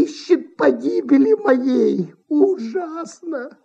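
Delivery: lightly voiced frightened old manager; pleading old man. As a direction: beg her like a desperate old man. Old manager begs from under sofa.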